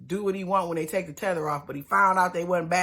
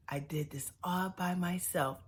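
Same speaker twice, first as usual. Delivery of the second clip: put-on little kid voice; 9 dB quieter than usual. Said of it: "Tony talked like a little kid".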